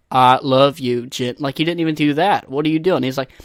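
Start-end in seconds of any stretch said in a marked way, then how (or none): 0.1-1.4 Forrest Gump. Retold or imitated. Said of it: "you have to at least, like".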